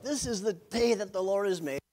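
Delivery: lightly hammed-up early-riser enthusiasm; spring out of bed rejoicing, playfully overdone; chirpy morning person. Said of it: "people out there who spring up out of bed".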